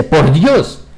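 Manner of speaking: mild demo of surprise; surprised exclamation. Shown as a demonstration. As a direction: exclaim "Por Dios" in mock surprise. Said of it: "está indicando sorpresa".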